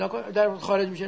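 ordinary talk

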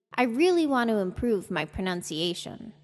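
"want to" run together into "wanna". Shown as a demonstration. Teacher modelling for learners to repeat, "want to" reduced to wanna. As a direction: blend "want to" into a quick "wanna". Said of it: "transformed want to to wanna".

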